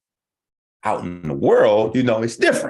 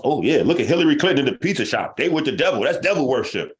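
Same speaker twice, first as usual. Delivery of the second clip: mocking conspiracy believer; 5 semitones higher, 3 dB louder, faster than usual. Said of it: "you watch Illuminati stories".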